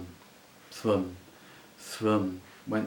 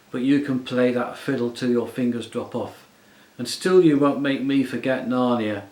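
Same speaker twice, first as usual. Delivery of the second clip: louder, pushing out defiance breathlessly; short of air, defiant; 2 semitones higher, 8 dB louder than usual. A narrator's reading. Puddleglum resisting the witch, breathless but defiant. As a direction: fight for breath and defy her. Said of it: "like a man who hasn't enough air".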